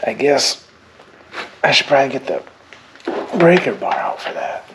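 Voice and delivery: winded from straining on the bolt; puffing between words; out of breath. Real, not acted. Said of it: "Oh, I'm out of breath".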